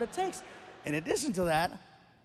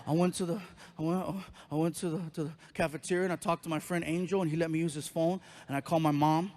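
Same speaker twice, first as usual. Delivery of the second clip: put-on lower-pitched teen reply with false starts; imitated teenage son; 4 semitones lower, faster than usual. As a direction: imitate a teen stumbling through an explanation. Voices teenage son answering.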